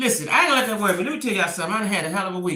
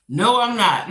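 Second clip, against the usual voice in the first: louder, insistent denial; firmer repeat; 6 dB louder, slower than usual. Real, not acted. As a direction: dig in and mean it this time. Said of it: "I'm not gonna let that bother me".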